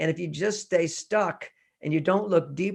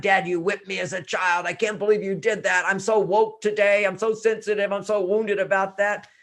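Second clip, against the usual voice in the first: mock whiny victim. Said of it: "walk around".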